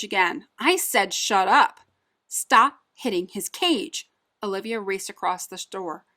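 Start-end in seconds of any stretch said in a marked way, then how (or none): 0.6-1.8 angry yell. Acted. Owner hits cage, yelling again. 2.3-4.1 urgent shout. Acted. Olivia confronts the owner.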